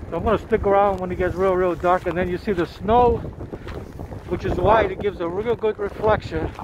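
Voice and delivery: panting between words after running; out of breath. Real, not acted. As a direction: talk while catching your breath. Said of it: "Sorry, I'm out of breath 'cause I was running".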